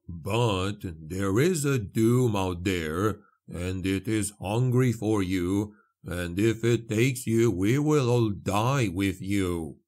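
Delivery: measured, unhurried character voice; solemn explanation, lightly in character; lightly voiced priest. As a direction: weigh each phrase gravely.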